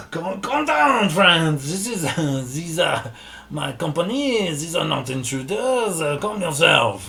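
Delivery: lightly voiced Valinor, calling down the hall; calling after him. Valinor chasing the dwarf, calling after him with mild urgency. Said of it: "calling after him".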